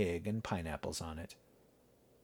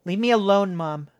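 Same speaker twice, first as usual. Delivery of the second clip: angry growl at her mother; 9 semitones higher, 6 dB louder than usual. A narrator's reading. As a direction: snap it back with a growl. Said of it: "Jessica growled".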